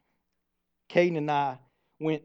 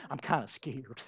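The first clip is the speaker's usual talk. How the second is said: put-on timid boy; 4 semitones lower, 11 dB quieter than usual. Little son admits fear.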